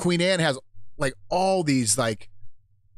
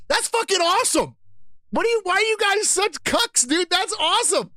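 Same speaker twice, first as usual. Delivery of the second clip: over-the-top thrilled self-quote; gleeful yelling. Retold or imitated. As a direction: yell it like a giddy fan. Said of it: "I'm like".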